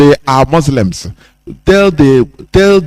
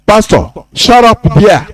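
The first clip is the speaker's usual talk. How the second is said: mild acted shout, raised pitch; shouting at pastor; 5 semitones higher than usual. Showing congregants how to answer a pastor, mild shout. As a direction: rebuke the pastor with a higher voice. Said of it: "Shout at them".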